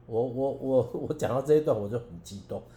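stammering, then a quick rush of feeling with a laugh; choked up with emotion. Real, not acted. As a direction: overcome while telling the story, laughing through it. (激动，带着笑声)

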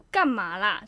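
a touch sharper, firmer 干嘛啦; mildly irritated snap of 干嘛啦; fiercer. Retold or imitated. Friend turning round again, now mildly annoyed. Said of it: "就已经比较凶".

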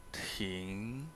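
Ting said softly, pitch sliding upward; rising tone. Shown as a demonstration. Teacher showing the rising tone of Ting to students. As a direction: let Ting climb like a question. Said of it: "hacia arriba".

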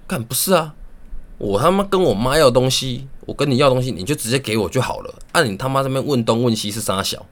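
coworker grumbling about mom's questions, mildly voiced; retold irritated rant. Retelling the coworker's annoyed complaint, a touch of mock anger.

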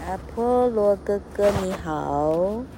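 slow, sweet little-brother greeting; sweet baby voice. Acted. Baby Hermes sweetly greets his angry big brother, slow and sugary. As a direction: coo it like an innocent baby. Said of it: "Hermes很甜美的声音".

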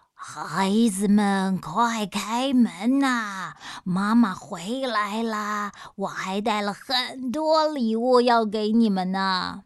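slow, coaxing put-on mother voice, a touch rough; a monster faking mom's voice at the door; hoarse fake mother. Mountain monster coaxing the children to open the door, slow and sly. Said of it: "听到那个人的声音沙哑".

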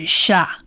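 "sha" as sh plus open "ah"; blended syllable. Shown as a demonstration. Teacher blends consonant and vowel, "sha" clear and separate. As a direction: repeat "sha" distinctly with pauses. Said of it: "所以这个字许跟啊念起来".

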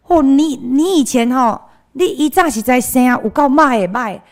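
邻居阿姨大声调侃; neighbor auntie. Retold or imitated. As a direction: tease the grown-up kid like a blunt neighbor. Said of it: "跑过来跟我们讲话".

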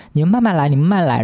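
overly nice, mock-sweet; suddenly sweet driver.

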